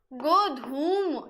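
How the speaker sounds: गोधूम drawn out very slowly, each syllable clear; slow spelled-out word. Shown as a demonstration. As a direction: stretch गोधूम out for the class. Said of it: "ठीक है, ये तत्सम होता है". (बहुत धीरे, साफ़ उच्चारण में गोधूम)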